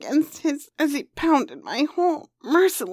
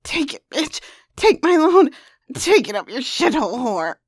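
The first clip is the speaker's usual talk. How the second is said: loud rough shouts; shouting; 6 dB louder than usual. Acted. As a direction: yell the commands out. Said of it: "shouting out too while he was filling me".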